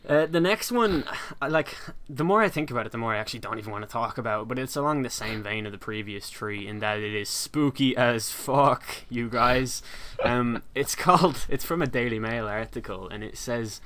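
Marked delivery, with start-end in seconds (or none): none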